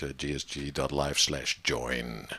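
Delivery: slow, low announcer plug; radio presenter voice. Pretend. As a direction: read the address like a radio ad. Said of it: "I like the voice".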